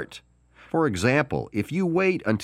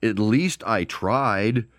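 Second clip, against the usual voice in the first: excuse-making; 3 semitones higher than usual. Retold or imitated. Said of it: "you can say".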